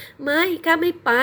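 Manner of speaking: high, slow, defiant no; firm refusal. A narrator's reading. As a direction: dig in and refuse him. Bride refuses firmly. (ปฏิเสธเด็ดขาด เสียงสูงและช้า)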